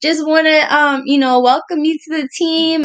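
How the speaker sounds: lightly imitating an upbeat, cheerful caller; mild impression of a bubbly team greeter; cheerful Nicole. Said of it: "upbeat and happy and cheerful".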